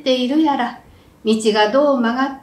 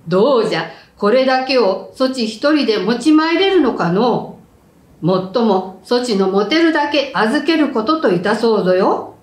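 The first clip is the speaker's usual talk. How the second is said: stately samurai. Acted. Samurai speaking in the story.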